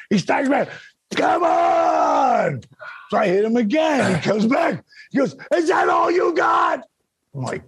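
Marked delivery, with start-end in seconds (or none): 1.2-2.6 higher, shouted dare; mock taunting yell. Wrestler taunting opponent in ring. 5.5-6.8 high, slow shouted taunt; mock taunting shout. Wrestler taunting after punch.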